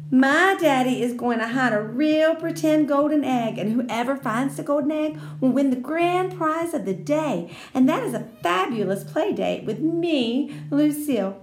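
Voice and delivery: put-on high, bragging little girl voice; proud rich girl bragging; boastful Lucille. Lucille boasting about the prize.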